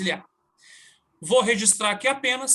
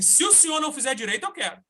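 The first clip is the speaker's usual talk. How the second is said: sharp comeback; 6 semitones higher, faster than usual. Retold or imitated. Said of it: "Falei desse jeito".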